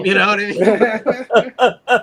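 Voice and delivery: drawn out through laughter; laughing. Real, not acted. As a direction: laugh the words out slowly. Laughing at the story's turn.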